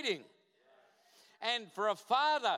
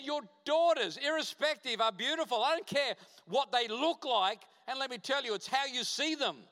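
forceful insistence; 5 semitones higher, 4 dB louder than usual. Retold or imitated. Pastor insisting to the father.

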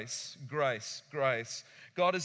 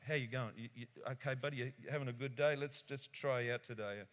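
soft greeting; 4 semitones lower, 6 dB quieter, faster than usual. Retold or imitated. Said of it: "He's going".

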